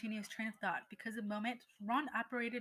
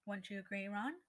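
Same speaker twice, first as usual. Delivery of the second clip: icy tones. Acted. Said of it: "she spoke in icy tones".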